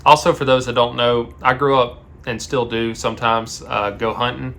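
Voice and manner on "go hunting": hunting said with a Southern twang; southern accent. Real, not acted. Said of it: "My southern accent".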